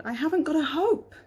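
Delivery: high despairing captain; lightly voiced hopeless sailor; captain's voice. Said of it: "he said".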